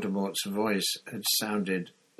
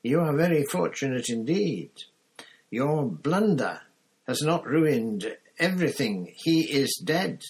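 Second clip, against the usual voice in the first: cold, high-pitched voice; 6 semitones higher, 4 dB louder than usual. A narrator's reading. Cold master tells Wormtail of his luck, high-pitched. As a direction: pronounce it high and icily, stretching the key words. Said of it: "said a cold, high-pitched voice".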